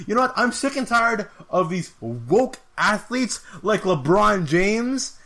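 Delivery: imitating Colby. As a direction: drag out the complaint like a cocky ranter. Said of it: "He's like".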